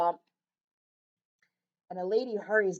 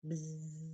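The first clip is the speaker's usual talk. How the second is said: buzzing bee; 4 semitones lower, 9 dB quieter than usual. A narrator's reading. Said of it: "the bees in the flowers".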